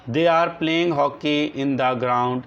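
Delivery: very slow, word by word, for copying down; slow dictation. Shown as a demonstration. Teacher dictating a definition to the class, slow and deliberate. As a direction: dictate each word so the class can write it.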